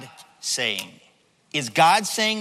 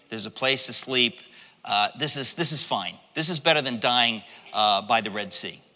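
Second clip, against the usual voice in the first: lower, hesitant, mildly acted reluctance; low-key, complacent grumble; resigned pleading; 4 semitones lower than usual. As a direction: talk yourself into settling for what you have. Voices resigned slave wanting no change.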